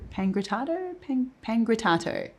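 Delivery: a weak, soft stab at an Italian accent on "pangrattato"; bad Italian accent. Shown as a demonstration. Cook admits her Italian accent is terrible, mock Italian accent. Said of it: "the worst Italian accent you've ever heard".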